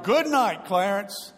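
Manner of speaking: yelled good night. Retold or imitated. Preacher shouting farewell over the shut casket, loud. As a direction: slam the lid and call out good night. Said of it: "he yelled".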